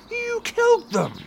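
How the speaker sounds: high, loud accusing shout; furious accusation. Acted. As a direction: yell it right in his face. Interrogating the suspect.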